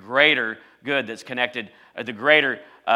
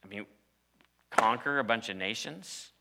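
incredulous Israelite; 3 semitones lower, 9 dB quieter than usual. Retold or imitated. Freed slave doubting God's promise, quietly incredulous. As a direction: voice of a doubting freed slave, much softer and disbelieving. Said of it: "I said".

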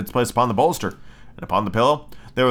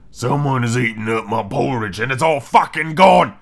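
wee little bear. Acted. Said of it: "in his wee little voice".

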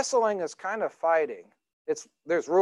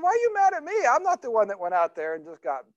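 puzzled father; 3 semitones higher than usual. Retold or imitated. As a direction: ask him why, baffled. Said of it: "I said".

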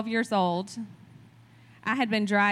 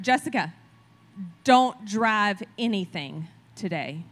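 serious father; 4 dB louder than usual. Retold or imitated. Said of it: "in his very serious voice".

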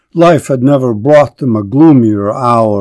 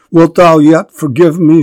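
raised, pleading cry; desperate begging; 4 semitones higher, 5 dB louder than usual. Acted. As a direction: beg him for forgiveness, louder. Hester begs repeatedly.

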